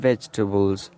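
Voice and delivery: "vegetables" as VEJ-tuh-bulz; "vegetables" with the middle vowel dropped; correct pronunciation. Shown as a demonstration. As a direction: say "vegetables" in three syllables. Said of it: "it's vegetable".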